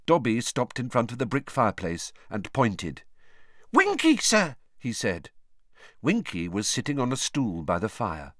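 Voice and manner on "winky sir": high, loud, excited elf squeal; squealing house elf. A narrator's reading. Dobby voiced.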